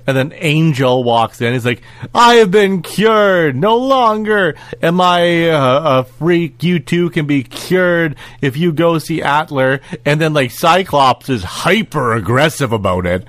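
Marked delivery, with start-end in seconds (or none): 2.1-9.8 lightly acted grand announcement, higher and drawn out at the start; mock proclamation. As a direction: imitate a slow, declaiming speech. Acting out Angel's cured speech.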